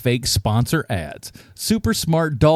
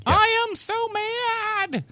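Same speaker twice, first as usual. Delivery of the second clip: mock mad; 5 dB quieter, much slower than usual. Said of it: "feigning that they're angry and they're not actually yelling".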